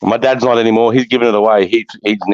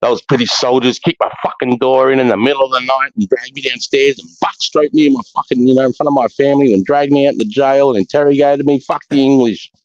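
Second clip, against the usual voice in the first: put-on stepdad's Irish accent, pitched up; thick Irish accent; 5 semitones higher than usual. Son imitating his Irish stepdad's war story, thick Irish accent. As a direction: imitate a thick Irish brogue, higher than usual. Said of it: "in that real thick Irish accent".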